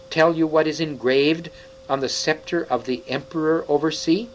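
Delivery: a cold witch getting shriller. Acted. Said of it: "her voice growing suddenly shriller".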